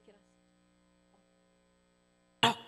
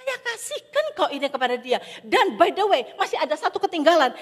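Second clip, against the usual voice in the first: louder, laughing as he gives it away; amused and generous, laughing; 7 semitones higher, 8 dB louder than usual. Acted. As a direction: chuckle through the generous reply. Pastor laughing tells police gift.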